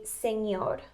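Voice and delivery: "señor" with N gliding into Y; ñ sound. Shown as a demonstration. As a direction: say "señor" as sen-YOR. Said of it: "like, the ñ sound".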